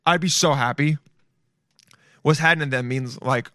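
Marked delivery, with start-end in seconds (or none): 2.2-2.9 "happening" squashed to "hannin"; slang pronunciation. Shown as a demonstration. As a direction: say "happening" as two syllables, HAN-nin. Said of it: "But H A N N I N".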